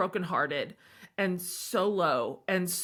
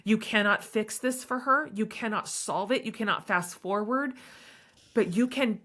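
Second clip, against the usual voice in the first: warm; 3 semitones higher than usual. Retold or imitated. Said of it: "And I was like".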